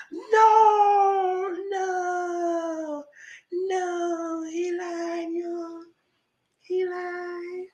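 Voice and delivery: high, drawn-out wailing "no"; mock disbelief. Everybody reacting to Glenn being called a liar, mock disbelief. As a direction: imitate a stunned crowd in a thin, very high voice.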